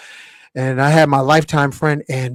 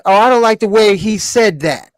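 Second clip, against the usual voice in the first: mocking soft man; 6 semitones higher, 6 dB louder than usual.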